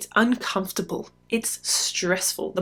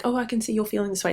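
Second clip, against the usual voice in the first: clinical reflection; 2 semitones higher, 3 dB quieter, much faster than usual. Shown as a demonstration. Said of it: "which is not like".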